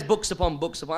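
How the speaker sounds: lightly imitated Lancashire accent. Quoting the man's unacademic answer, imitated Lancashire accent. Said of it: "in his broad Lancashire accent".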